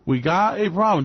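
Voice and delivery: slow drawn-out Donald, Donald; mock worried adviser; pleading with Donald. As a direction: coax him gently. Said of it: "And I go sit down and go".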